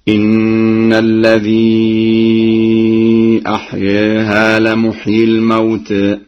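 أحياها and الموتى tilted toward e; Warsh taqlil. Shown as a demonstration. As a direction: tilt the final alifs, slowly. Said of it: "بتقليل الألفاظ التالية". (تقليل أحياها والموتى)

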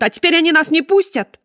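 высоко и громко, с отчаянием; выкрикнуть с отчаянием; истеричный крик. Acted. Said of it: "закричала". (хозяйка Сеттера кричит, что их не выпустят)

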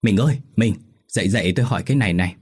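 breathless urgent calling to wife; urgent waking call. Acted. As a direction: hurry to wake your wife. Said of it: "chạy vào buồng gọi vợ".

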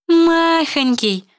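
slow, high mocking echo of махонький; mocking mimic. Friend mocking the heroine's word, slow high sneer. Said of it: "передразнила Элифиса".

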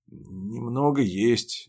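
slow, grudging reply; reluctant. Acted. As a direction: squeeze the words out unwillingly. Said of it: "нехотя выдавливает он".

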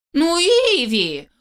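high, slow whine of her name; Иви stretched slowly and high; whiny drawn-out name. A narrator's reading. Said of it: "протянул моё имя визгливым голосом".

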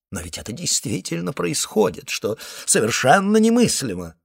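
plain reading voice

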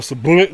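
loud mock collapse sound; imitated slump noise. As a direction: blurt out a comic slumping noise.

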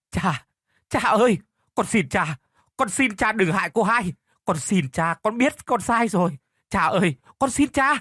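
high, loud pleading cry to father; begging shout. Acted. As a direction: wail and beg your father for mercy. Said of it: "cậu cũng bắt đầu gào lên, đập cửa rầm rầm".

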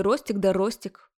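a hint of a pestering nag, lightly voiced; mild mock nag; mock nagging aunt. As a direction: tease them with a nagging whine. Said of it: "Изобразила доставучую кабаниху".

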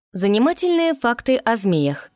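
high, eager little report voice; high-pitched keen kolobok. A narrator's reading. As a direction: announce it like an eager little know-it-all. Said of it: "доложил он".

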